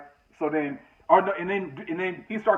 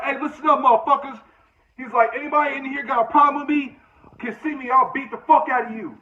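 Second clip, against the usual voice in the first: higher, raised mock shout; 7 semitones higher than usual. Cellmate challenging the whole chow hall, mock shout.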